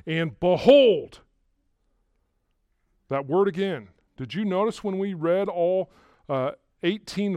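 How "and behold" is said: BEHOLD loud and drawn out; emphatic proclamation. Real, not acted. Preacher rousing listeners to sit up straight, emphatic proclamation. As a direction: land hard and slow on "behold". Preacher flags the attention word.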